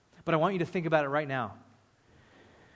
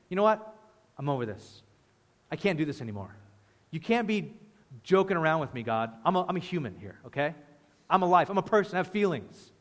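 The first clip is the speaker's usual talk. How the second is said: mock indignant complaint. Acting out complaining to God.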